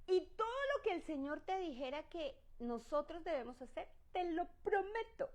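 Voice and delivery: high, teary promising voice; whiny promise. Acted. People promising Moses obedience, teary and whining. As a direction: whimper the promise. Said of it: "Y el pueblo, ¿qué dijo?".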